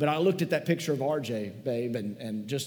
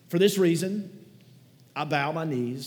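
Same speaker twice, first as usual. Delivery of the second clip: higher, louder opening of a scripture reading, rising; 4 semitones higher, 4 dB louder than usual. Shown as a demonstration. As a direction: start the reading aloud to the room. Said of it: "I'm gonna read it from the screen".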